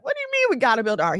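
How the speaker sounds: quick, incredulous wife; lightly acted baffled wife; wife's disbelief. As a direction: fire the question back fast. Baffled wife voiced in story.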